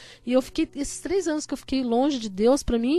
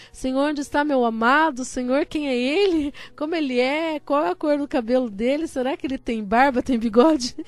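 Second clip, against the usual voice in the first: louder, hammed-up string of questions to God; eager mock prayer; 5 dB louder than usual. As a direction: playfully overplay an impatient plea to the Lord. Acts out her eager prayer, exaggerated. (oração ansiosa, de brincadeira)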